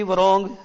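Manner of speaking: वरोंग said "rong" without the w; silent w. Shown as a demonstration. Teacher sounding out wrong for the class. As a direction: drop the w in वरोंग. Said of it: "डब्ल्यू R O N G".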